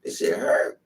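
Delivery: hushed, breathy mock pain; low whispered wince; whispered complaint. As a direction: whisper it like you're wincing. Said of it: "I'm like".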